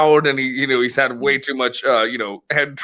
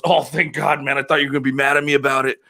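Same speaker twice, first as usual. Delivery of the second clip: fast, laughing with relief; buddy relieved he isn't mad; faster than usual. Retold or imitated. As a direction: rush it out, relieved. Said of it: "And he goes".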